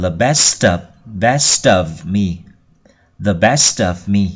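best of run together as "bes-tov", slowly; linked sounds. Shown as a demonstration. Teacher shows how to join words, best of linked. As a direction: link the t of best into of. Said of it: "chúng ta có thể nối âm vào".

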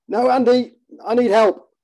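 high, strained cry for help; pained plea. Acted. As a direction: beg for help through the pain.

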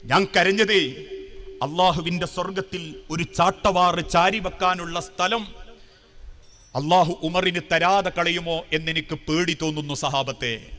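a touch of weeping sorrow, pitched low; understated tearful confession. Retold or imitated. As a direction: confess a fear with restrained grief. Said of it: "പൊട്ടിക്കരഞ്ഞുകൊണ്ട് സഹാബത്തിനോട് പറയാ".

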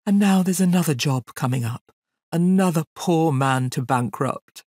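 mournful elephant. A narrator's reading. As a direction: bemoan your lot slowly, like a great put-upon beast. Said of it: "said Hamlet mournfully".

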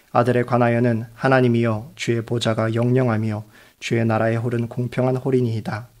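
ordinary talk, nothing marked

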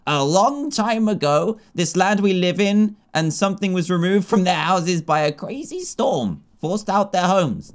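lightly voiced gentle goddess; slow, kindly divine guide. Voices the Harvest Goddess NPC.

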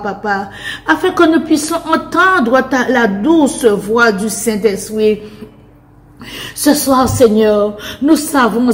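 impassioned spoken prayer, each line closed on a dropping "Seigneur"; fervent prayer. Acted. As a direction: pray aloud with rising fervour, a touch of laughter. (prière fervente et passionnée)

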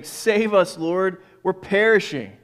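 loud frightened cry for help; desperate plea over the storm; panicked plea. Acted. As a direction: cry out as if the boat is sinking.

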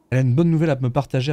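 sarcastic. Real, not acted. Mocking rival's announcement.

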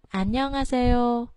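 안녕하세요 with 안 pitched low, then rising; low start on 안. Shown as a demonstration. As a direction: drop the voice on 안 in 안녕하세요, then lift. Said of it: "Mình xuống giọng chữ an".

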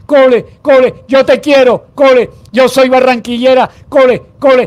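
mock tearful outcry; imitated crying and yelling. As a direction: plead like a sobbing child fan. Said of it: "pero llorando a gritos".

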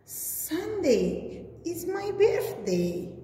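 high, slow, happy ape voice; a light, lifted character voice; Jake's line. Acted. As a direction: lift it up as the excited birthday ape. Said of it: "he said".

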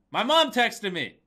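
high excited blurt, slowed; real surprise at a text; excited outburst. Real, not acted. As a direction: squeal the news slowly. Sudden news mid-chant.

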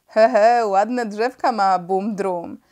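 loud chuckle, then slow amused line; jolly airman peering through the telescope; chuckling pilot. A narrator's reading. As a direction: chuckle at the trees below. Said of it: "zrobił się rozmowny i wesoły".

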